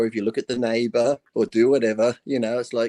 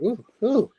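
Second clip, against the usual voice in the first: higher-pitched mock-excited "oh, oh"; 10 semitones higher than usual. Joke teller as Jesus thinking he recognises someone, excited. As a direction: act out growing excitement on a dawning realisation. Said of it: "Jesus is getting all excited again".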